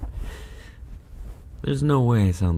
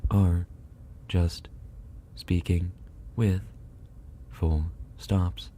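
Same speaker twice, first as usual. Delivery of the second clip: word by word; 3 dB quieter, slower than usual. Shown as a demonstration. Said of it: "you can also say".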